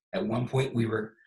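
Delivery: losing his voice, hoarse; strained, fading hoarse voice. Real, not acted. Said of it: "I'm losing my voice".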